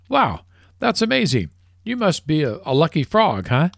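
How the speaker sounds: golfer's voice jumps high in wonder; a hammed-up, delighted golfer; amazed golfer. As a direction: gush like you can't believe it. Golfer amazed in told joke.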